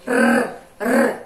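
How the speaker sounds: R said as a quick tongue tap, loud; tapped R sound. Shown as a demonstration. Teacher isolating the tapped R sound for pupils. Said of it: "esse é o som do R fraco".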